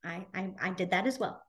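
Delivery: put-on child quietly admitting mom is right; sheepish. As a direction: mumble the admission, caught out. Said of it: "I'll have to go a little silent".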